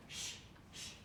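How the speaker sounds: soft unvoiced shush. Real, not acted. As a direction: hush the room quickly. Hushing the class.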